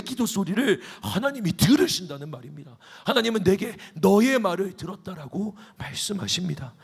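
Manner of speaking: rising, impassioned sermon voice; fervent preaching. Real, not acted. Pastor urging the congregation with rising fervor. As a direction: build it up like a revival preacher.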